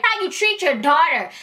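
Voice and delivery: high, indignant scolding voice; exasperated, high-pitched mock tirade; retold cussing out. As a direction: act out an outraged woman telling someone off. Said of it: "listening to her cuss her".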